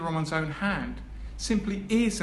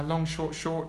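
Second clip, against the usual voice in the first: "long" stretched, "short, short" clipped in beat; long, short, short rhythm; slower than usual. Shown as a demonstration. Lecturer demonstrating a rhythm to the audience, slowed beat. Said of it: "think of the following simple rhythm".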